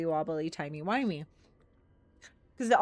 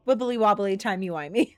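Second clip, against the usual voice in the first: mock character voice; 8 dB louder than usual. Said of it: "Riange's like".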